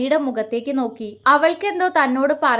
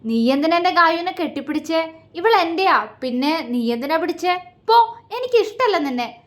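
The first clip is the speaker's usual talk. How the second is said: put-on childish sulk; 5 semitones higher than usual. Jealous man sulks like child.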